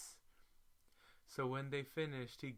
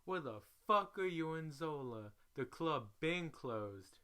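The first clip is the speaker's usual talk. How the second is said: mock angry pimp; 5 semitones higher than usual. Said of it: "he is going off".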